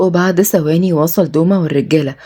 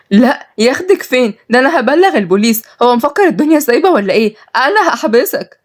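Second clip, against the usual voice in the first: higher, mildly tearful defiance; crying; 6 semitones higher than usual. Acted. Malak threatens police to save sister, tearful. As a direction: threaten through a touch of tears. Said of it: "ردت ملاك بعياط".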